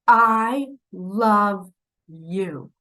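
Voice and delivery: "I love you" very slow, each word given weight; with meaning. Shown as a demonstration. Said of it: "say it with meaning".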